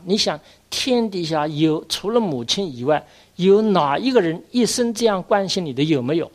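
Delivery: a preacher driving home a point; rising appeal. Real, not acted. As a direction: press the question harder and harder. Preacher challenges brother.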